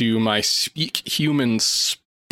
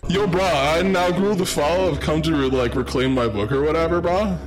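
bro voice; 4 semitones higher than usual. Acted. Casual bro version of villain.

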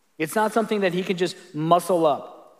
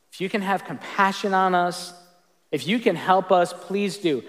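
cry of desperation; 3 semitones higher than usual. Shown as a demonstration. Pastor reading the father's plea to Jesus, desperate cry. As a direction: beg for help with a desperate edge. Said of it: "Read that with a bit of a cry of desperation".

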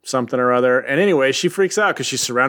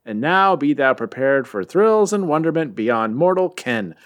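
grand comic caption read; 3 semitones higher than usual. Acted. Host reading the comic's opening caption aloud, grandly. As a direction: read it like an epic title card.

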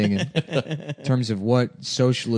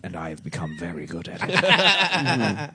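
the Architect; 7 semitones lower, 6 dB quieter than usual. Acted. Film parody telling his friend his fate, low and stately. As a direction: pronounce it softly with lofty, measured precision. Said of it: "the architect in the Matrix".

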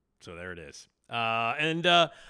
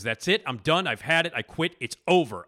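raised, higher mock outburst; angry quitting rant; 5 semitones higher, 6 dB louder than usual. Larry David quitting on Ebersol, a raised angry outburst. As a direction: storm out shouting that you quit. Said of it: "busts into Ebersol's office and says".

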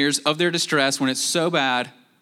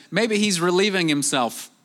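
a light, higher mocking jab; mocking taunt; 5 semitones higher than usual. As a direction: tease them with fake encouragement. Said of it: "he says".

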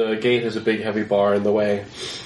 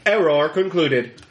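glitching robot; 5 semitones higher, slower than usual. Acted.

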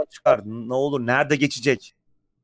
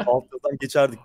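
chuckling through the words; laughing. Real, not acted. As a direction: say it while laughing. Joking about subtitles, laughing.

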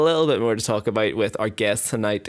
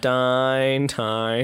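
drawn-out Northern Irish singing; Northern Irish accent. Acted. Host mimics a band covering a song, Northern Irish accent. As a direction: croon it long in Northern Irish. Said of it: "but in a Northern Irish accent".

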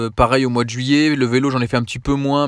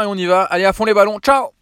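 bright, high cheerful goodbye; smiling voice; 7 semitones higher than usual. Real, not acted. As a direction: wave them off with a grin. Cheerful sign-off to friends.

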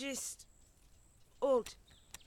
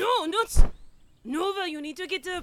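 loud, higher panicked plea; alarmed call; urgent shout; 9 semitones higher, 16 dB louder than usual. Acted. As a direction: yell her awake. Urgent waking.

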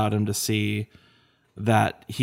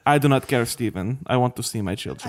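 put-on Wanda accent. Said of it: "My accent is gone".

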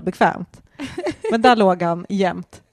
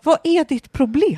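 higher, sneering cat voice; voicing an annoyed cat; 8 semitones higher, 3 dB louder than usual. Annoyed cat glaring at its owner, higher sneer. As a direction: speak as the offended cat.

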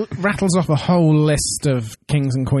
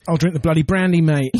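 mock Cockney. Mock Cockney queen again.

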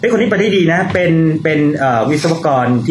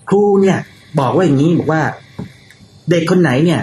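higher, lightly voiced daughter; daughter reporting; 4 semitones higher than usual. Daughter tells dad what teacher said, lightly imitated. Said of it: "วันหนึ่งจู่ๆก็มาบอกพี่กับแฟนผมว่าไงรู้ไหม".

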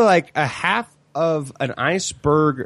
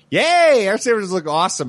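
mock cheer; 5 semitones higher than usual. Mocking friends' cheerful reaction.

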